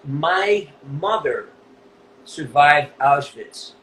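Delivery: very slow, measured words; slow, weighty retelling. Retold or imitated. Interviewee quoting a fan's grave disclosure, slow and weighty. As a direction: let each word land, slowly.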